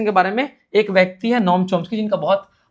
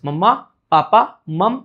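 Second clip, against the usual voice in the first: put-on slow, louder baby words; drawn-out मम्मा, पापा, a little louder; 4 dB louder, slower than usual. Shown as a demonstration. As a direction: spell out मम्मा, पापा slowly like a toddler's first words. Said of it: "बच्चा एक single word बोलता है".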